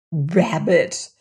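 a touch of scorn; scornful. Acted. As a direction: dismiss it with mild contempt. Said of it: "said her aunt scornfully".

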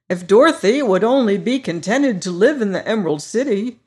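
Scarecrow voice. Acted. Scarecrow boasting to his friends, high and loud. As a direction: play the proud new ruler, brighter and up. Scarecrow hopes Dorothy stays.

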